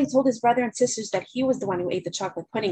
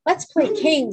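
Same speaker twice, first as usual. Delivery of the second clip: bossy lie voice; 7 semitones higher, 4 dB louder, slower than usual. A narrator's reading. Blue lie bossy invitation.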